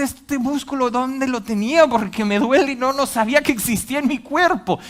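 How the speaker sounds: high, loud mock astonishment; sore surprise. Person sore after exercise, amazed and complaining. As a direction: marvel at a muscle that aches.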